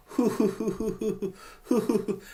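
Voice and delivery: mock shivering from the cold, breathy hoos; shivering hoo sounds. Telling her partner how cold winter is, mock shivering hoos. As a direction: shiver out each hoo like freezing. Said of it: "I'm always going".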